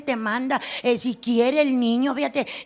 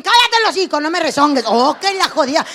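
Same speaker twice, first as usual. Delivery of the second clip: angry mother; 6 dB louder than usual. Retold or imitated. Comedian as her mother scolding a failing daughter, loud. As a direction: snap at the kid to shut up.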